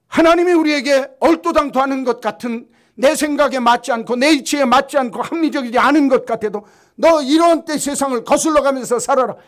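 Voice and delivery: loud, high fervent sermon voice; full-force preaching. Acted. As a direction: thunder it from the pulpit.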